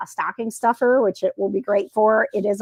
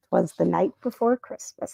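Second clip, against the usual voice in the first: misread title; 3 semitones lower, 4 dB quieter than usual. Real, not acted.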